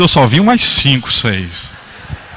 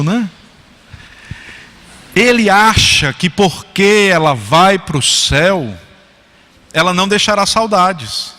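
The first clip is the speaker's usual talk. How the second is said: normal talking voice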